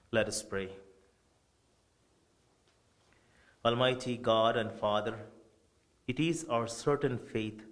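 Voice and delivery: measured, solemn prayer from the altar; funeral prayer. Acted. Priest praying over Bill's funeral, solemn prayer voice. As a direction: pray it steadily for the dead brother.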